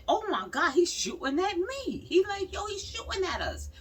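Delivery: a hammed-up newsman, mildly panicked; lightly voiced news reporter in panic; mock panic. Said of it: "he said".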